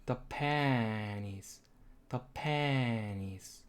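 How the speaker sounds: pen stressed, the and is light, slow. Shown as a demonstration. Teacher models stress on pen, slowly. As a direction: hit pen, let the rest fall away. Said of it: "강세는 펜하고 soft".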